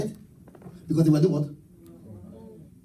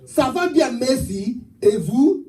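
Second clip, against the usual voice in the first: higher, louder, half-sung French phrase; mockery of tongues as one learned phrase; 7 semitones higher, 7 dB louder than usual. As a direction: chant rote French like fake tongues. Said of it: "Speak another one".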